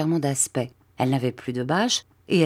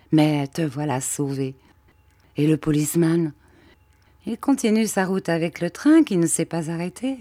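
lightly voiced Mathia. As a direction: tell the rescue with mild relief. Mathia explains the rescue.

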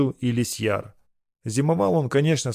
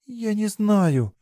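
put-on higher, slow, lost girl's voice; honest admission; 9 semitones higher, much slower than usual. A narrator's reading. Girl admits to her lover she doesn't know, slowly. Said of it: "честно призналась Верея".

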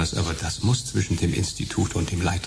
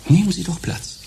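subdued sympathetic undertaker. Acted. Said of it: "gedämpft mitfühlenden Lächeln".

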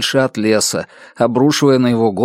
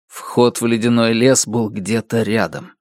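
plain reading voice

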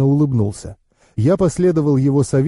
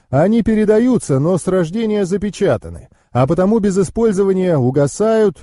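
higher-pitched knowing uncle; explaining uncle; 5 semitones higher than usual. Acted.

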